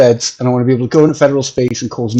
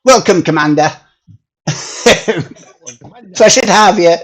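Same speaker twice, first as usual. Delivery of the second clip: mock Yorkshire accent; 3 semitones higher than usual. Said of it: "Or a, a Yorkshire accent".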